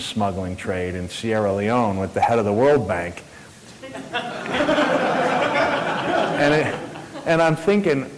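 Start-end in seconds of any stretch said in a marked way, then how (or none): 3.8-6.3 high-pitched burst of laughter. Real, not acted. Laughing at talking diamond smuggling with the bank head. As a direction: laugh out at the absurdity.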